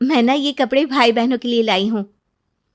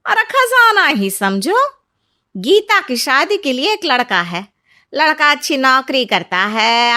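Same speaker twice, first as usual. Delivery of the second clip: busybody neighbour auntie; 3 dB louder than usual. Acted. Neighbour auntie bursting in on worried parents, loud and eager. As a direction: sweep in like the nosy neighbour with big news. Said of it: "तभी पास की मौसी उन लोगों के घर आती है".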